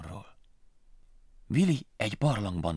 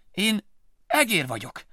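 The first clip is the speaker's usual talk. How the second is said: slow, higher, stubborn mouse; insisting; 11 semitones higher, 4 dB louder, slower than usual. Acted. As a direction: plead his point. Willy insists again.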